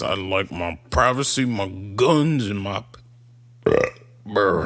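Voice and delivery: put-on low, drawn-out North Dakota accent; a light North Dakota accent. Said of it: "You just did a perfect North Dakota accent".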